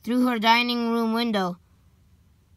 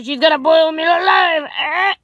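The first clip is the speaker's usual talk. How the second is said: high, loud whimpering dread; crying in fear; 6 semitones higher, 7 dB louder than usual. Acted. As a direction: wail in terror. Terrified child thought.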